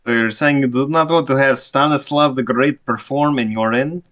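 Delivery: mock-grand, lightly faked Russian accent; bad Russian accent. Rejected performer questions the bartender, bad Russian accent. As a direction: question her in hammy Russian, rising at the end. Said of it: "He's doing a very bad Russian accent".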